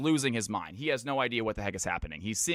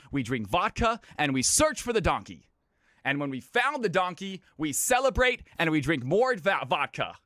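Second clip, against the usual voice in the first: lightly voiced villager. Villager telling a reporter about his lost donkey, lightly acted storyteller. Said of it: "And the farmer, he thinks for a second".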